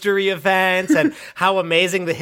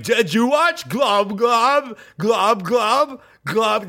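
higher, slow, bubbling glub glub; a put-on droning bot; gurgling fan bot; 5 semitones higher, much slower than usual. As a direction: drone it like a wobbling fan. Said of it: "and it's like".

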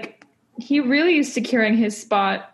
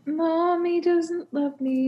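higher, softer, slow mock whimper; mock sad child; 6 semitones higher, 4 dB quieter, slower than usual. Podcast host imitating a sad Tyson, softly whiny and slow. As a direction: play it like a forlorn little kid, lightly. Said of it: "One may say".

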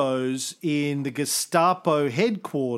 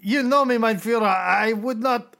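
German lieutenant; 2 semitones higher than usual. Acted. Officer pleads with Hitler.

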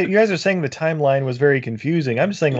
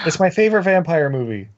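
put-on Peter Jackson New Zealand accent. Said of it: "My New Zealand accent is on point".

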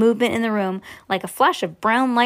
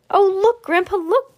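high, louder delighted call; excited cry; 10 semitones higher, 4 dB louder than usual. Acted. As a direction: call out to Grandpa in wonder. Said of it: "cried Charlie".

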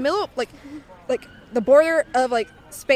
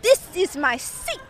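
bad Italian accent; 5 semitones higher than usual. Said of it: "this is a terrible Italian accent".

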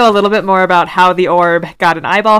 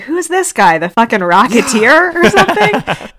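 high puzzled quote; 4 semitones higher than usual. Retold or imitated. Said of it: "I was like".

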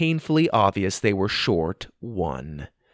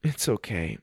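whispered, much softer; quiet; 9 dB quieter than usual. A narrator's reading. Megan answering Sophie through hidden tears, whispered. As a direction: barely breathe it out. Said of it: "she said quietly".

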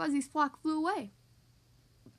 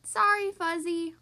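slow apologetic pup; 3 semitones higher, 5 dB louder, slower than usual. A narrator's reading. Marshall apologizing after soaking goose.

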